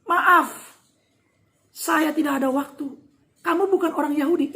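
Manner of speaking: curt. Acted. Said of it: "dengan ketus".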